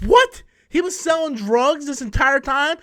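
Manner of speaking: shocked at his friend's secret; retold shock. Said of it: "I'm like".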